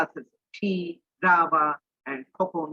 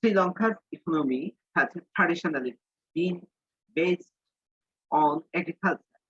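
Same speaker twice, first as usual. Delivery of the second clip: slow, deliberate English read for learners; teacher reading a textbook line slowly to the class; slow dictation reading; much slower than usual. Shown as a demonstration. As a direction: read it out slowly so students can follow. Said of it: "একটা উচ্চারণ এখানে শিখো".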